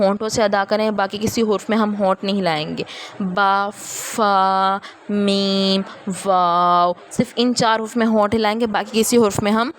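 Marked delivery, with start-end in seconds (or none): 3.2-6.9 با فا میم واو with lips closing; lip letters. Shown as a demonstration. Teacher showing lip letters to students. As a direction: show the lips on each letter. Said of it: "ہونٹ نہ ہلنے دیں".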